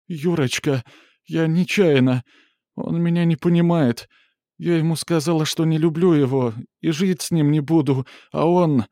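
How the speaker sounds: high, pleading babble; babbling woman's voice. Acted. Mura babbling excuses to angry Yuri, high and tearful. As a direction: plead like a caught child. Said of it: "лепетала".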